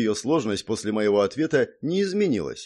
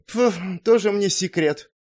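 louder, higher snorted retort; displeased scoff; 9 semitones higher, 4 dB louder than usual. A narrator's reading. Irritated blonde dismisses his bargain, scoffing. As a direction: wave off his secret. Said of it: "фыркнув, недовольно".

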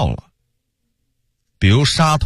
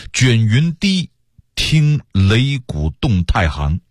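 slow, measured recital with held words; verse recitation; slower than usual. A narrator's reading. Storyteller recites the duel of spear and blade as verse. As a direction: recite the battle verse in slow phrases with pauses.

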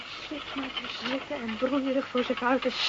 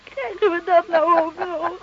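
loud, sharp and higher; indignant outburst; 5 semitones higher, 11 dB louder than usual. Acted. Wife exploding at her husband over another woman. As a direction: blurt it out in disbelief.

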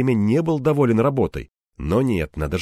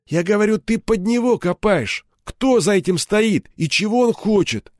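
pressing; 9 semitones higher than usual. Acted. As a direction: lean in on him. Interrogator pressing harder.

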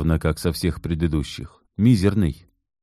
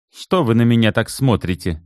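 raised, puzzled question; surprised; 5 semitones higher than usual. Acted. Assistant to the men staring at her, surprised. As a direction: sound caught off guard by the stares. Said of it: "удивлённо спросила".

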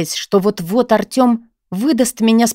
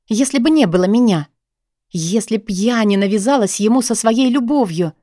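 usual speaking voice

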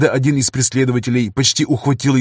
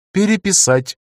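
театральный приговор; 7 semitones higher than usual. Acted. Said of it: "выдержав театральную паузу".

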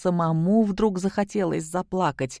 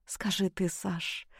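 whispered; 2 semitones higher, 8 dB quieter, slower than usual. Acted. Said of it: "прошептала ему Наташа на ухо".

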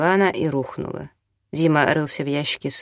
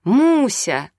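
much higher, louder alarmed cry; shout; 9 semitones higher, 5 dB louder than usual. A narrator's reading. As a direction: cry out the child's name in panic. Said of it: "Татьяна закричала". (громкий испуганный крик)

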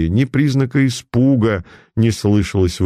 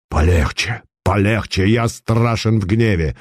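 through gritted teeth. Acted. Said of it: "заскрипел зубами Цанков".

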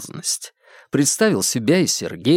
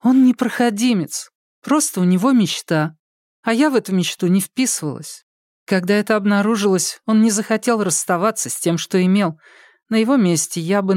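put-on lightly raised young woman's voice, earnest; Polina's voice; 7 semitones higher than usual. Polina explaining to the detectives, in a lightly raised earnest voice.

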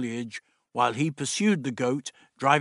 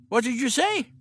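put-on higher, brisk old doctor; 11 semitones higher, 3 dB louder than usual. The Doctor instructing Meliam, brisk fussy voice. Doctor queries Dodo's reply.

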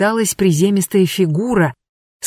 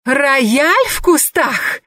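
put-on much higher, very slow drunken howl; drunken wail; 8 semitones higher, much slower than usual. Vasilisa howling drunk at the intruders, much higher and slow. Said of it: "завопила Василиса пьяно".

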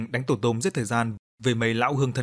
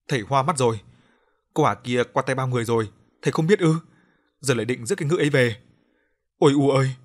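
angry retort; 4 dB louder than usual. Acted. Daughter defying her father over his mistress, loud retort. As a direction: fight back and cry out to mother.

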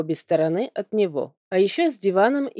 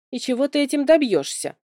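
higher-pitched challenging question; objecting; 6 semitones higher than usual. A narrator's reading. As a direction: challenge the witch's plan. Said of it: "возразила я". (возражая, с вызовом)

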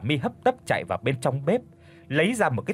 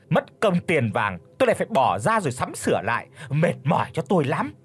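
roaring rebuke; 4 semitones higher than usual. Acted. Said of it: "chỉ mặt con dâu rồi gầm lên". (mẹ chồng chỉ mặt gầm lên)

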